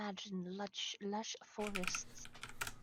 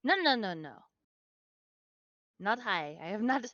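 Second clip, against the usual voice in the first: loud denial; 8 dB louder than usual. Acted. Character denying being high.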